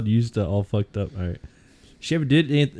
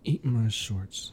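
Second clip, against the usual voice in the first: taunting; 6 dB quieter, much slower than usual. Acted. Bender taunting the principal.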